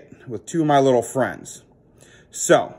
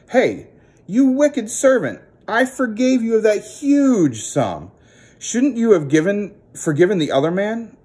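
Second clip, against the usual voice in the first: angry king; 7 semitones higher than usual. Acted. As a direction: scold the wicked servant sternly. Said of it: "the king was just mad".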